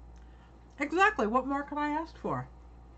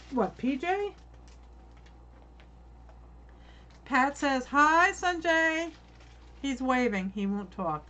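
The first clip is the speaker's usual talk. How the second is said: crunching chips; 4 semitones higher, slower than usual. Real, not acted. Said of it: "Excuse the crunching".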